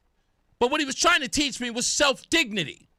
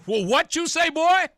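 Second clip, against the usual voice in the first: laughing challenge; 7 semitones higher, 4 dB louder than usual. Retold or imitated. Laughing reaction to clip.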